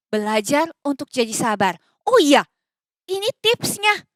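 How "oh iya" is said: ordinary talk, nothing marked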